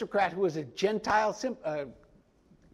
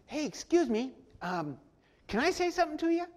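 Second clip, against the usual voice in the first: breezy casual ask, pitched higher; casual, offhand; 7 semitones higher, 4 dB quieter than usual. Shown as a demonstration. Paul casually interrupts the tribune, offhand and breezy. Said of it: "doesn't say it like that".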